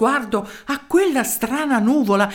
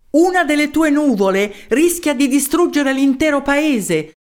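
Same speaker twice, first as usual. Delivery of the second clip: booming accusation; 3 semitones higher than usual. Acted. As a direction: thunder the charge at the mayor. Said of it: "disse Dragone con voce tonante".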